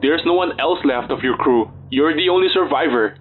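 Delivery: mild shout. Acted. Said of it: "I shouted".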